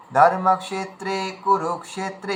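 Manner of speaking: slow, a clear gap after ধর্মক্ষেত্রে before কুরুক্ষেত্রে; right way: gap in the middle; gap between words. Shown as a demonstration. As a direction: keep ধর্মক্ষেত্রে and কুরুক্ষেত্রে apart. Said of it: "মাঝখানে gap দিলাম".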